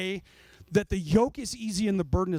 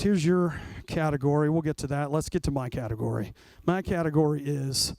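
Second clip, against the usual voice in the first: lower, lazy bargaining with God; lightly voiced smug believer weighing his worth; 5 semitones lower than usual. Believer bargaining with God, lower and smug.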